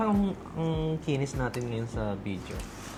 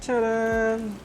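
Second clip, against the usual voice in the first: excited reveal; 11 semitones higher, 5 dB louder than usual. Real, not acted. Presenting the pizza reveal.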